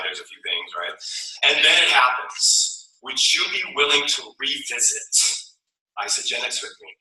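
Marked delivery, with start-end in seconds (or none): 3.0-6.9 inviting question. Shown as a demonstration. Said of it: "That's what you ask".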